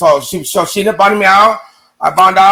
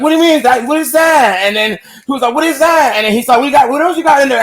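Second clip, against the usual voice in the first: higher-pitched, insistent mock interrogation; retold demanding questioning; 5 semitones higher than usual. Officer questioning him over a drug find, demanding. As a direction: imitate someone pressing for answers, pitched up.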